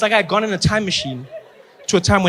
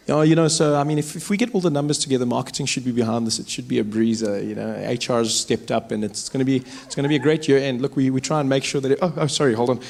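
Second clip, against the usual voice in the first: normal white South African driver; 4 semitones lower than usual. Retold or imitated. Driver chatting to friends, lower and relaxed. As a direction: chat casually about work in the car. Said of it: "talking normally".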